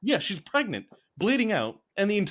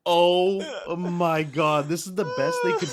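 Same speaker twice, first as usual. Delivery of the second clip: exasperated disbelief; 4 dB louder, slower than usual. Retold or imitated. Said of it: "And I'm like".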